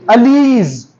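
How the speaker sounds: अलीज with the s sound added on the end; possessive demo. Shown as a demonstration. Teacher models the possessive form अलीज, adding the s sound. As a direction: say अलीज, stretching the word with an s sound. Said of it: "साथ में एस का sound".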